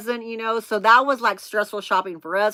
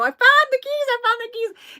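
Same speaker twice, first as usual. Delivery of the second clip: high, squealed mock holler; retold hollering; 4 dB louder than usual. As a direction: call out the news, laughing at yourself. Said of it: "So I start hollering at him".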